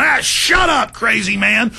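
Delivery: high mocking brush-off; dismissive crowd. People dismissing the warner, mocking high brush-off. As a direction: wave off the crazy man. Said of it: "And people are going".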